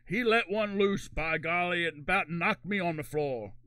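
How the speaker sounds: light Southern drawn-out courtroom testimony; Southern witness. Acted. Mock witness testifying about a fart, lightly put-on Southern accent. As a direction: testify slowly with a hint of the South. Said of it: "Why are we doing, like, the South".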